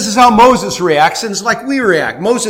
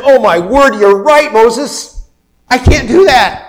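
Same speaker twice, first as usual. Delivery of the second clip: higher, louder mock God caving in; mock sheepish God; 6 semitones higher, 6 dB louder than usual. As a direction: play God suddenly giving in to Moses. God voiced conceding to Moses.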